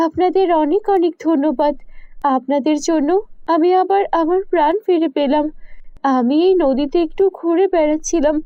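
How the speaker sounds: a hint of a snake woman, grateful and earnest; thankful serpent maiden telling her story, lightly voiced; lightly voiced grateful naagin. Naagin thanking the couple who healed her, lightly voiced and grateful. Naagin speaks after recovering.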